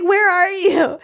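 high, plaintive mock call. Jessica searching for him in the fog, calling out.

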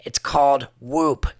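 upbeat sponsor read, selling it. Acted. Host pitching his sponsor to listeners, upbeat ad read. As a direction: pitch the tracker to listeners like a friend.

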